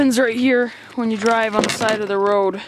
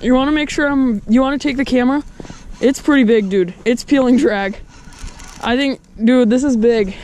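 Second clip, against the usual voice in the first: fighting a fish. Real, not acted. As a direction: talk while reeling in a big fish.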